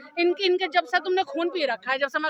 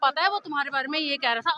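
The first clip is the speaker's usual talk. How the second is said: a hint of a gossip passing on tales; mimicked gossip; 2 semitones lower, faster than usual. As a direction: lightly mimic a quick tattletale. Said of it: "चुगलखोर लोग होते हैं ना". (चुगलखोर की हल्की नकल)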